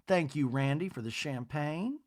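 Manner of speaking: high-pitched society matron impression; Miss Patricia. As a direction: imitate a lady gossiping in a high, lilting voice. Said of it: "Miss Patricia goes".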